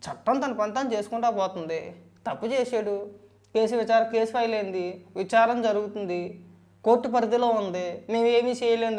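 parroting the official line, a touch emphatic; mock-quoting their logic. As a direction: rattle off their stock excuse mockingly. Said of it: "మీరు చెప్పిన లాజిక్లు ఏంటి?". (వాళ్ళ సాకులను ఎగతాళిగా అనుకరిస్తూ)

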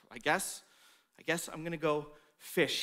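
soft, low, defeated; dejected sigh-like mumble. Retold or imitated. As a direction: say it like all hope is gone. Peter at his lowest, defeated.

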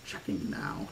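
low, whispered sarcastic echo; mock the words under your breath; sarcastic repeat. A narrator's reading. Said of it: "he repeated sarcastically".

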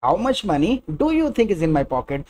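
very slow, "you" stressed and falling; careful teacher demo. Shown as a demonstration. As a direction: say it slowly, hit "you". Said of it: "या फिर".

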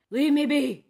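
high, very loud desperate scream. A narrator's reading. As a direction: scream to be let go. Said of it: "he screamed".

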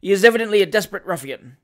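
loud, fast pompous verdict; pompous judgment. Acted. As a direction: pronounce it like a self-important judge. Pompous magistrate judging.

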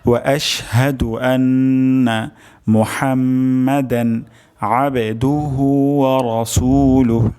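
whole phrase recited slowly, measured, chant-like; slow recitation. Shown as a demonstration. Teacher recites the full phrase again for students, slow chant. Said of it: "আরেকবার উচ্চারণ করছি".

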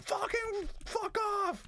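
very slow, high, loud cat snarl; voicing the cat. Owner voices the furious cat, high and loud. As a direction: drag out the cat's fury, high. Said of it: "she's like".

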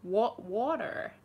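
slow attempt at American "water"; American accent. Shown as a demonstration.

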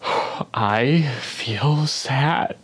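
sighing, sad. Acted. Forced admission after sigh.

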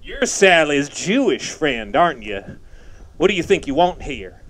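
lightly mocked hostile brother, loaded questions; pointed rhetorical questions, mockingly quoted; imitating brother's questioning. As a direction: mimic a brother challenging an intruder. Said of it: "Your brother speaks in rhetorical questions".

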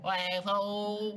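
long stretched vowels; mock slow-mo drawl; slow-motion voice. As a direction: drag the word out playfully. Joins slow-motion greeting.

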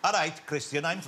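lightly put-on Welsh accent. Film extra greeting a star from home, Welsh accent. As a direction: greet him in a casual Welsh lilt. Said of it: "this is a Welsh accent".

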